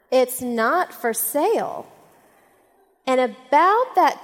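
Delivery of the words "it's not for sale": slow, deliberate, arms-crossed no; firm refusal. Retold or imitated. The lady shutting down the golf cart question, slow and firm. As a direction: lay down the law, word by word. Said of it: "crossed her arms and she just looked at me".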